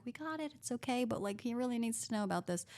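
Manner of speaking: imitating the unruffled senior, lightly voiced; softly reassuring, a touch of calm; calm reassurance. Senior resident steadying her junior, calm. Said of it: "She was just calm".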